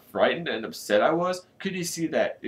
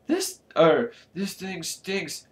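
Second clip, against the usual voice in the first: put-on muttered boy voice; 6 semitones higher, slower than usual. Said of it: "Aaron muttered".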